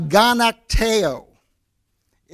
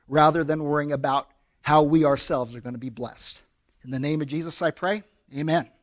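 closing prayer; 3 semitones lower than usual. Acted. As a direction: pray over the congregation reverently. Pastor leads closing prayer.

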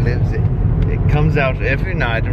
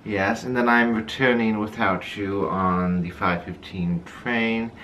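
posh butler voice; 4 semitones lower, 5 dB quieter than usual. Pretend. Posh answer continues.

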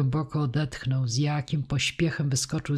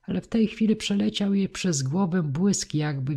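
ordinary delivery, nothing marked

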